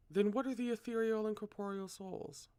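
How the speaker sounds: put-on high raspy old man question; rasp. A narrator's reading. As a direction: rasp it like an ancient sage. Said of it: "rasped the old man".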